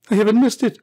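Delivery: quick relief settling down; excited self-talk. Acted. Scrooge talking to himself, relieved and excited. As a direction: reassure yourself happily. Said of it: "said Scrooge to himself".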